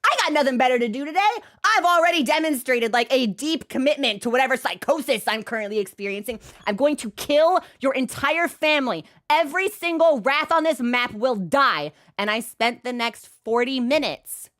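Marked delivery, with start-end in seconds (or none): 0.0-11.9 mock vengeful vow. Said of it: "I say".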